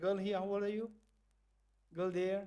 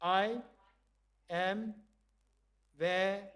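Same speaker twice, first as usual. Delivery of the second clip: sad; much slower than usual. Shown as a demonstration. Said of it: "let's do it again".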